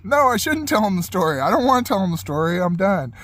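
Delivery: hammed-up whiny no; mock protest. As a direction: playfully beg off telling it. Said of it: "I'm like".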